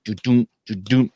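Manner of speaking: mouthing the flutter of a sick heart; irregular heartbeat imitation. Shown as a demonstration. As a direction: mimic your own uneven heartbeat. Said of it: "My heart was like".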